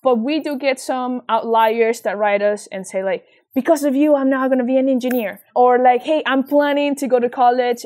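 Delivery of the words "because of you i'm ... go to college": louder, higher, voiced as a keen student message; quoting eager students. Outlier students writing to thank the foundation, quoted eagerly. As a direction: lift it brightly in a student's quote.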